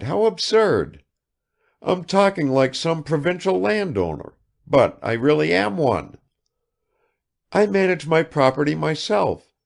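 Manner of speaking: high, rapid-fire chatter of a vain lady; affected negligence. A narrator's reading. Kukshina showers Bazarov with questions, high and affected. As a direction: pour out questions without waiting.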